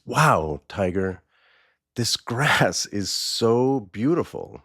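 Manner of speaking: lightly acted wonder, drawn out; mild awe. Donkey admiring the grass to his tiger friend, mild awe.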